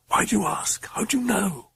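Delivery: urgent high whisper. A narrator's reading. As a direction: whisper the questions anxiously. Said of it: "she whispered".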